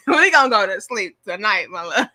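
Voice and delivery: amused, laughing teasing of a partner; laughing tease. Real, not acted. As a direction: talk through giggles, then laugh out. Teasing husband, laughing through repeated line.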